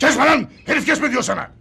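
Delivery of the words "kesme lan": loud, rough rebuke; scolding order. Acted. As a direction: bark at the helper to stop. Vendor scolds his helper.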